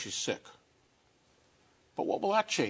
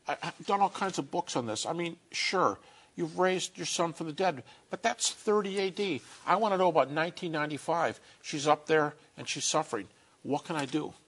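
higher-pitched, pleading objection; pleading protest; 3 semitones higher than usual. Acted. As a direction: push back at God, pitched up. Arguing with God in imagined dialogue.

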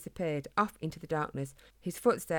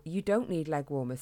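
father voice. Acted. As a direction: repeat it back like a bemused father. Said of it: "His dad looked confused".

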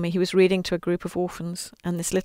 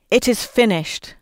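loud shout; 3 semitones higher, 3 dB louder than usual. Acted. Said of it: "shouted out in a loud voice".

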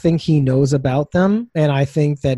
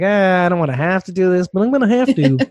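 reluctant middle manager; 4 semitones higher than usual. Retold or imitated. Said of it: "that middle management kind of attitude".

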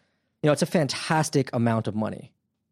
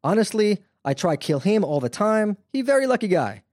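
put-on thick Russian accent, pitched higher; Neufeld's Russian accent; 8 semitones higher than usual. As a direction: quote him in a heavy Russian accent. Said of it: "he has that real thick Russian accent".

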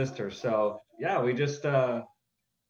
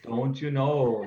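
Minnesota accent; 4 dB louder, slower than usual. Shown as a demonstration. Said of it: "give us a few phrases or words that typify that type of an accent".

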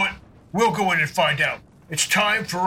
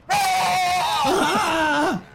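raging yell; 11 semitones higher than usual. Acted. Player leaps on the fleeing guard, raging yell. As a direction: let out a hammed-up battle yell.

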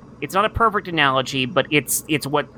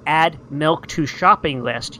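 slow clear voice command; slower than usual. Retold or imitated. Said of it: "every time I said".

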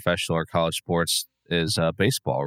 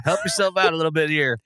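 baseball dad yelling; 9 semitones higher, faster than usual. Retold or imitated. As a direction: bark it like a dad in the bleachers. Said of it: "I can hear my dad saying that".

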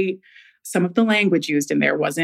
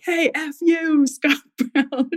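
retold yell; 8 semitones higher, slower than usual. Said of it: "yelled out of their car".

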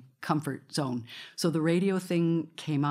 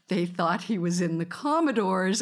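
raised, laughing punchline delivery; retold laughing storyteller; 5 semitones higher, 4 dB louder than usual. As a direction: tell it as if cracking up mid-story. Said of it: "he's laughing as he's telling the story".

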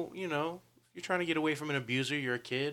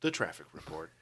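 light radio traffic announcer; newscaster voice. Pretend. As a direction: sign off like a radio host. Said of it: "sounds like a newscaster".

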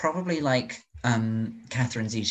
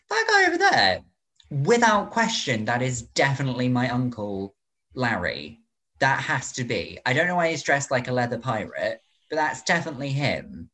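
mock confident girl. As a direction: play the overconfident niece spotting her uncle. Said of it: "this girl is just like, like, go".

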